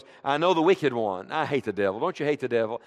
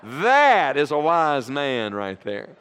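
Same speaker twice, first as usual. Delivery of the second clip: wry joke; 2 semitones lower, much slower than usual. Acted. Joke about pastor pointing.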